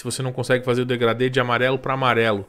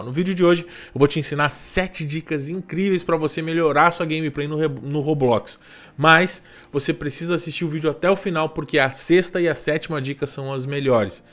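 YouTuber intro hook; 3 semitones higher than usual. Shown as a demonstration. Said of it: "Você coloca".

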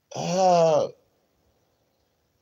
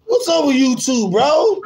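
anguished high whine; slower than usual. Real, not acted. Streamer pleading with YouTube, high anguished whine. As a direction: cry out in mock despair. Complaining about YouTube feed.

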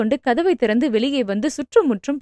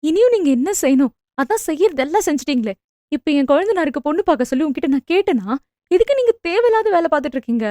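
angry; 3 semitones higher, faster than usual. Acted. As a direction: confront her mother heatedly. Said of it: "என்று கோபமாக கேட்டாள்".

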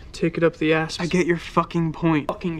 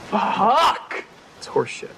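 swearing tirade. Acted. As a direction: build to a furious rant. Rapid-fire swearing montage.

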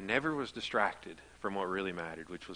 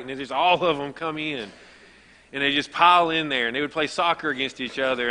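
louder, higher, rushing with delight; cheerful excitement, louder and higher; excited; 5 semitones higher, 8 dB louder than usual. Real, not acted. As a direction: build the joy of the crowded house. Excited memory of family crowd.

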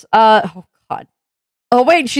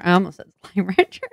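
trailing down low and quieter, unsure; hesitant slip; 4 semitones lower, 5 dB quieter, faster than usual. Real, not acted. Streamer nearly naming the wrong game, hesitant. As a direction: let it sink and falter, then lift on Rancher. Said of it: "There was some hesitation".

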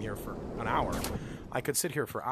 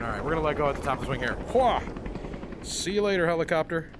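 loud and excited; 6 dB louder, faster than usual. Real, not acted. Riding the helicopter, thrilled.

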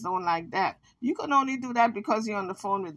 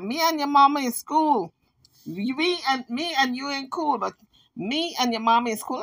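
higher, sassy mock retort; imitating Jaguar's retort; 4 semitones higher than usual. Vlogger imitating Jaguar answering the Kansas with sass, higher. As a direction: toss it back with a smirk. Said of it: "But Jaguar said".

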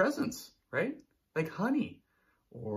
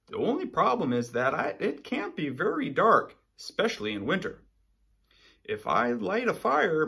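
a touch of Polar Bear reading his letter; lightly voiced letter; 4 semitones higher, 5 dB louder than usual. Polar Bear's letter to his friend, lightly voiced.

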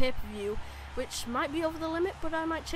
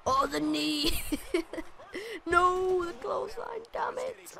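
mock Triple H; 3 semitones higher, slower than usual. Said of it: "he's like".

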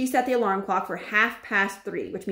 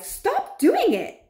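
very high, slow, crying plea; high tearful plea; pleading cry; 3 dB louder, much slower than usual. Acted. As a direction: beg him to stop, almost in tears. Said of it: "I cried".

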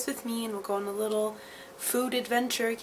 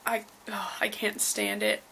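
whispered, grossed out; hushed disgust at the taste; 4 dB quieter than usual. Real, not acted.

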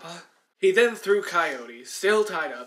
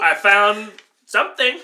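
excited discovery; 5 semitones higher, 12 dB louder than usual. Acted. Acting out Columbus discovering land.

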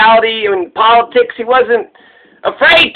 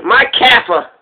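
friendly tone. Shown as a demonstration. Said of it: "the okay way to say Kafir".

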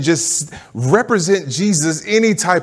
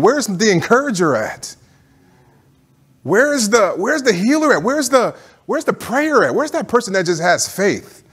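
rising higher with each where's the; building call-out; 5 semitones higher than usual. Real, not acted. Preacher to church, calling for its helpers, climbing higher.

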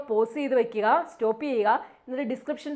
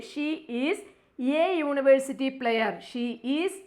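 slow reading of the answer; slow read-aloud; much slower than usual. Shown as a demonstration. Teacher reading the answer slowly to students. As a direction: read it word by word. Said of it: "reads answer slowly".

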